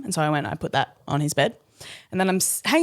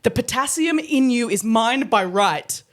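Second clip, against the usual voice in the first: slow solemn pronouncement; grandiose declaration; 5 semitones higher, slower than usual. Retold or imitated. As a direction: declare it like a king. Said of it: "He goes".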